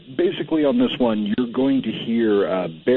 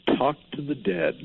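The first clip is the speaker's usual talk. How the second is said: unearthly voice; 5 semitones higher, 4 dB quieter than usual. Retold or imitated. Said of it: "the ghost voice says".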